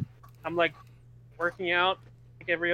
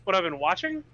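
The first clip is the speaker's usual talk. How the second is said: talking while eating; mouth full. Real, not acted. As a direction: speak through a mouthful of food. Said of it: "Sorry, I'm eating at the same time".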